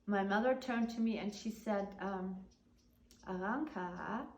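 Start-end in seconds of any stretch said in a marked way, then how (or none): 3.3-4.3 warning tone. Retold or imitated. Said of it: "that tone of voice".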